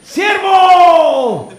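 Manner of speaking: loud, high shout up to a scaffold; calling out. Retold or imitated. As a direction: hail the brother from the gatehouse. Same call repeated.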